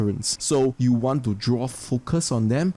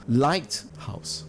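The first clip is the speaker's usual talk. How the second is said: slow "lighthouse", strong first syllable; LIGHT-house, spoken very slowly; stress on light; 2 semitones higher than usual. Shown as a demonstration. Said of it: "emphasize on the light".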